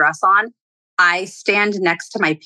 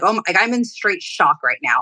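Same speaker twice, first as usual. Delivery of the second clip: ordinary delivery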